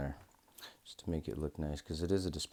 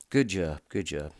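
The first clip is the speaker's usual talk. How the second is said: cheering; 10 dB louder than usual. Real, not acted. Congratulating everyone after success.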